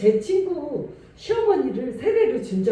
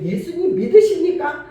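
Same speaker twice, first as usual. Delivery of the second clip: urgent pastor's question; 5 semitones higher, 7 dB louder than usual. Retold or imitated. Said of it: "뭐를 전해야 되면".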